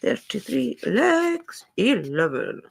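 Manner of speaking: sing-song bingo call, high on legs; bingo caller. Pretend. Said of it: "I missed my calling as a bingo caller".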